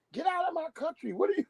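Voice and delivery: high, retold ranting yell; mock angry yell. Asian man yelling at another, mock rant. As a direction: shout like a man losing it. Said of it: "Asian dude going crazy".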